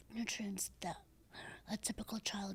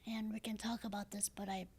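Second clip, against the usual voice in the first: breathy raspy voice. Real, not acted. Woman explaining to the interviewer why her voice is raspy, breathy and raspy. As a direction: speak with a paralyzed vocal cord. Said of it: "There's so much breath that comes out of me".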